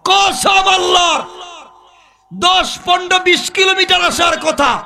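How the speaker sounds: high, chanted sermon shout; ringing pulpit declamation; full-force preaching. Real, not acted. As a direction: proclaim the miracle on a high sustained pitch.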